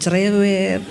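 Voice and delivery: low, laughing cerewet; playful tease; teasing jab. Retold or imitated. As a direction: slip it in as a joke. Teasing word in prayer.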